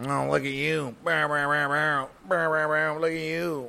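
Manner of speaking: sneering fake worship of a newcomer; mock fawning crowd. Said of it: "these motherfuckers are".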